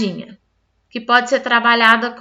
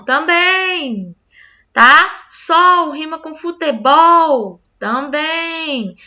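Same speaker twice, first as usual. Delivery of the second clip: put-on higher, slow and bright-eyed teacher asking, cheerful child answering; playful rhyme quiz with a child; 4 semitones higher, 4 dB louder, much slower than usual. Shown as a demonstration. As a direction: quiz a small child on rhymes, drawing out each question.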